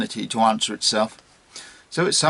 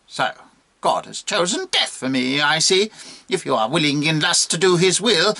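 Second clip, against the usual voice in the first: lightly voiced impudent monkey, rising to a high insult; defiant monkey; 3 semitones higher than usual. Monkey defying the bishop's threat, cheekily defiant. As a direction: argue back, ending in a squeal.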